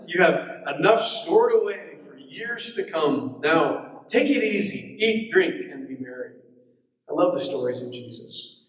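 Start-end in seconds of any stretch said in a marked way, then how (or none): 0.1-6.3 lightly voiced self-satisfied rich man; fat cat talking to himself. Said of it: "talking to himself".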